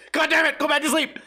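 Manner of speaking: high, strained groan of frustration; lightly hammed-up exasperation; frustrated outburst. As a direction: snap at yourself to sleep again. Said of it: "I'm like".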